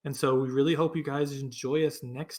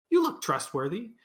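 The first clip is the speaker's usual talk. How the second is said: put-on old lady voice; 7 semitones higher, 4 dB louder than usual. Old lady addresses Dell.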